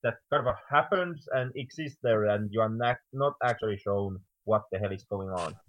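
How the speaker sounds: muffled, like through a door. Real, not acted. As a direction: voice muffled by a bad mic. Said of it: "It sounds like you're very muffled now".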